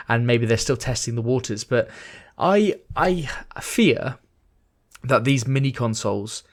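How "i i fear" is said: whisper. Acted. Dramatic whispered fear.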